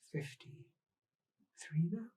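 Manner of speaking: very slow, drawn out; slow wistful. Acted. Marguerite musing about the woman's age, very slow. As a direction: let the age linger.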